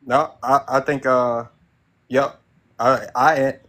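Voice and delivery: stumbling, repeating words; tripping over the first words; stuttering. Real, not acted. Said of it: "I'm stuttering".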